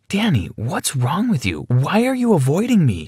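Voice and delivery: put-on high, pleading young woman; pleading girlfriend. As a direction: beg him to talk, voice rising. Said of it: "she asked me with pleading eyes".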